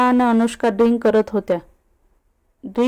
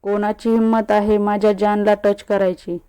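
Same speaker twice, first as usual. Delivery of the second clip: usual speaking voice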